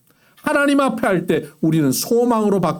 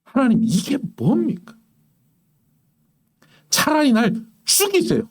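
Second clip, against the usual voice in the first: Elijah's despairing plea; 5 semitones higher than usual. Retold or imitated. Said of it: "엘리야가 하나님 앞에 뭐라고 기도하는지 아십니까?".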